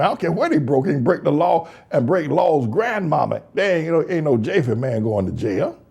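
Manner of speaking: ordinary delivery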